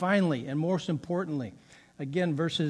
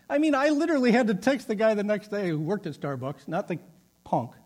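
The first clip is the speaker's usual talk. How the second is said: ordinary talk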